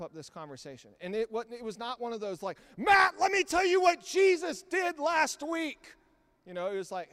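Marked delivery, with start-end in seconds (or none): 2.8-5.9 loud, high, slow mock lecture; preachy lecturer. Preacher mocks a pushy talker at a cafe, loud high lecture. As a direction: ham up a pushy know-it-all.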